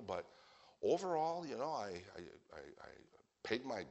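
stammering, halting self-justification; hesitant excuses. Acted. Person justifying himself before God, hesitant and stumbling. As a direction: fumble for reasons with false starts and pauses. Acts person fumbling for an answer.

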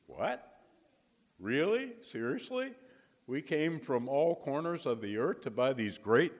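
mock-outraged "Seriously?"; indignant disbelief. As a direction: pitch jumping way up in outraged surprise. Indignant bidders protest the auction.

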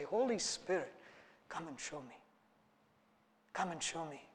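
hushed, pleading call to the Spirit; soft prayer. Acted. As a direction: breathe the prayer almost to yourself. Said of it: "should we train our senses in the Spirit to say".

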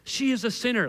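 lightly put-on Pharisee verdict. Preacher repeating the funny Pharisee line, mild Pharisee voice. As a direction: pronounce it as a mock Pharisee. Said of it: "the Pharisee voice that I have".

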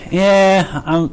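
mock half-hearted, trailing off; unenthused. Preacher mimicking uncommitted youths on stage, unenthused. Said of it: "that doesn't fire anybody up".

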